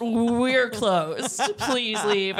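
imitated Spanish accent; thick Spanish accent. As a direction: mimic a Spaniard turning customers away. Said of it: "like, this really thick accent".

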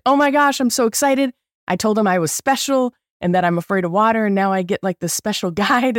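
high, bubbly imitated excitement; super jazzed. Anxious mom brags about special guide, giddy high. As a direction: bounce with a friend's giddy news. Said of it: "like, super jazzed".

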